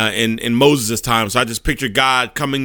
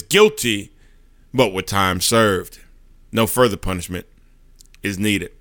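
calm defender; 4 semitones lower than usual. Acted. Jesus answering God the judge, low and calm. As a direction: state it gently, no fight in it.

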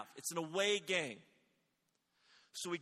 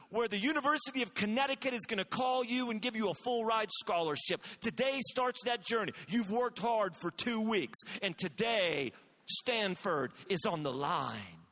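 inspirational coach speech; 3 semitones higher, 4 dB louder than usual. Retold or imitated. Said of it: "my speech was based around".

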